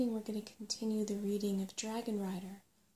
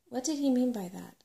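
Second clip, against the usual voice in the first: anxious; 4 semitones higher, 6 dB louder than usual. A narrator's reading. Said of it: "asked Sorrel anxiously".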